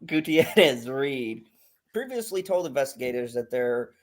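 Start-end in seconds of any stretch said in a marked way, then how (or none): 0.1-1.4 slow careful name. Real, not acted. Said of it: "Just say Hannah Reed".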